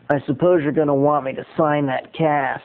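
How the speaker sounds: lightly imitated condescending star; a hint of a condescending celebrity impression; Charlie Sheen. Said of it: "I'm gonna try to do my Charlie Sheen imitation".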